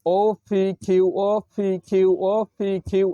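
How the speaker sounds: quick repeated letters in one breath; fast drill. Shown as a demonstration. Teacher shows the tongue-twister drill at speed. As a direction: rattle off এই যে এই খেই quickly. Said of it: "এভাবে".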